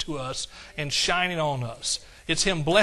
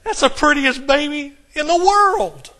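much higher, louder and slow, beaming with pride; proud grandparent; 8 semitones higher, 9 dB louder, slower than usual. Retold or imitated. Grandparent bragging to everyone, proud beaming. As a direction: show off the baby like a doting grandpa. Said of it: "you think that".

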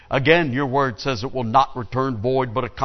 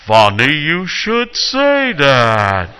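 voice from heaven; 7 dB louder, much slower than usual. Acted. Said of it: "a voice from heaven says".

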